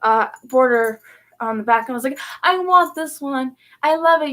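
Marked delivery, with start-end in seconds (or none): 2.4-4.3 higher, louder retold enthusiasm; lightly acted excited kid. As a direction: retell a child's eager plea. Child self pleading for guitar.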